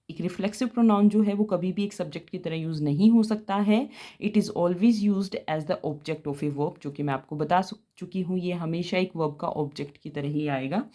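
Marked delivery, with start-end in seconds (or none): 4.2-6.8 reads the rule out slowly for notes; slow, clear English rule read to students; slow dictation read. Shown as a demonstration. Teacher reading a grammar rule aloud to the class, slow and clear.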